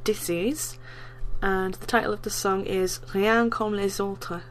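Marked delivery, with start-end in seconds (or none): 3.2-4.4 slow, amateur attempt at a French accent; English speaker's clumsy French accent; horrible French accent. Real, not acted. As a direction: say it carefully in a poor French accent. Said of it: "Sorry for my horrible French accent".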